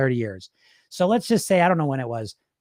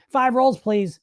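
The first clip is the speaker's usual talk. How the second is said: panicky high order; 7 semitones higher, slower than usual. Retold or imitated. Caving in and ordering five.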